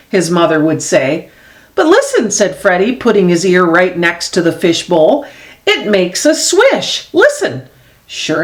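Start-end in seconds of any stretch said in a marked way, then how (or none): 1.7-2.3 put-on high, bright little boy voice; childlike voice. Freddie voiced. 5.6-7.6 put-on a small boy gently urging mum to listen. Freddie voiced, slower.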